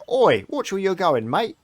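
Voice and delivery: high, loud cocky street lad; young boy. Acted. Boy bumped in the street, young urchin voice. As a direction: pipe up like a rough little boy. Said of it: "from, like, the young voice underneath".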